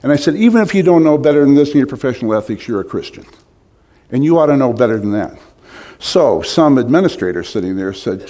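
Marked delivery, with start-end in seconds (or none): 0.0-5.4 retold anger. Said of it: "right up out of my chair in anger".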